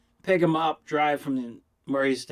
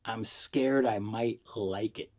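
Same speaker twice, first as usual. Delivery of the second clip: slow admission; 3 dB quieter, slower than usual. Retold or imitated. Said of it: "he said".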